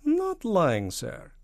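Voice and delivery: high, loud protest, falling off on sir; Soviet premier. Acted. Soviet premier rejecting the accusation, high protest. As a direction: protest high, then soften. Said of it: "said Premier Yugatov".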